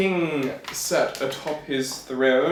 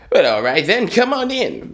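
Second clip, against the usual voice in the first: loud kingly voice, leaping higher at the end; 6 semitones higher, 5 dB louder than usual. Acted. King admitting the tailor to royal service, loud kingly voice. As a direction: play a booming king welcoming someone in. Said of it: "that's the voice of the king".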